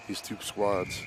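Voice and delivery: hoarse, scratchy throat; raspy voice. Real, not acted. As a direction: talk through a raspy throat. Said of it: "I apologize for the raspy voice".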